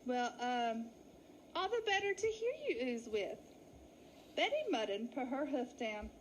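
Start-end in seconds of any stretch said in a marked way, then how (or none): 0.1-3.4 nervous fake lady. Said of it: "Willie gulped".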